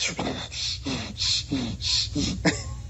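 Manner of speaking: long unvoiced puffs of breath; exasperated breath. Acting out someone bracing for a fight, exasperated huffing. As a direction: huff out breath after breath. Acting out 'and you like'.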